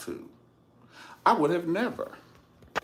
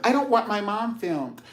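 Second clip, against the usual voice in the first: imitating Janet; 12 semitones higher, 3 dB louder than usual. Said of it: "And he keeps filming".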